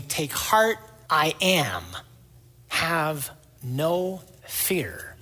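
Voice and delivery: solemn reassurance. Retold or imitated. Jesus calling reassurance to disciples.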